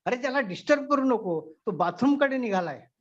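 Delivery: mock yell, pitch jumping up; sudden yell. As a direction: snap at him to stop disturbing. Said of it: "तो एकदम ओरडला". (अचानक ओरडून, पण हलकेच)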